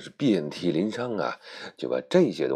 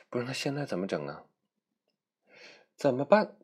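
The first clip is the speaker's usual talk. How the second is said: asking what to do; 8 semitones higher than usual. Acted. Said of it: "就说".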